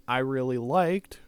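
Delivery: words stretched by a yawn. Real, not acted. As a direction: talk into a coming yawn. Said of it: "I'm yawny right now".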